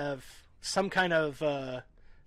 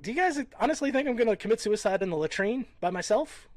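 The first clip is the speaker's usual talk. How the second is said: exasperated retort; 7 semitones higher, 5 dB louder than usual. Retold or imitated. Retorting to army mates.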